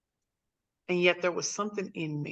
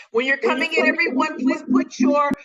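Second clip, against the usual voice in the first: raised voice to the room, projecting over the crowd; calling out louder; 7 semitones higher, 7 dB louder than usual. Real, not acted. Host calling out to late arrivals to mute, louder. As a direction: call out to the newcomers so everyone hears.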